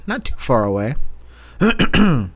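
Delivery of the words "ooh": a crack in the voice. Real, not acted. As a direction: voice cracks up high. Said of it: "my voice cracked a little bit".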